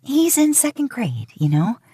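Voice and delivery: high, light voice with a chuckle underneath; talking through a little laugh, embarrassed. A narrator's reading. Teacher laughing off a kid's mishap to her date. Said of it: "in between laughter".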